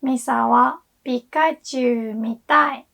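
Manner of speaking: "Misa wa Pikachu mitai" rising on wa; intonation for want to watch. Shown as a demonstration. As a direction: stress "wa" and let "mitai" carry the want-to tune. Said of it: "Can you hear the difference?".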